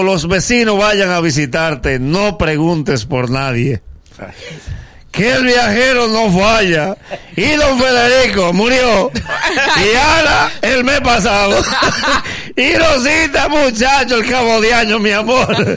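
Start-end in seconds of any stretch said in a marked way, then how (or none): 5.1-15.8 gossiping neighbour. Acted. Neighbour telling the returning traveler who died, gossipy. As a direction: savor each death like a gossip. Comic list of dead neighbours.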